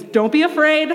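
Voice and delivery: lightly voiced angel reassuring; a hint of a soothing angel; angel's line. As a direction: angel gently calming a terrified priest, mildly reassuring. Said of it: "part of their script".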